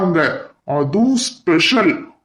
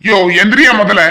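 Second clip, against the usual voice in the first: loud, sharp command to get up; angry order; 5 dB louder, faster than usual. Acted. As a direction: throw him out with the word எந்திரியா. Angry quarrel, ordering him out.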